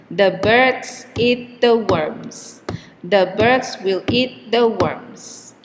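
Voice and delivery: birds, eat and worms on an even beat while the small words are squeezed; weak the, strong birds eat worms; keep the beat. Shown as a demonstration. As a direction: hold the tempo as words are added. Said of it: "the time between stressed words is always the same".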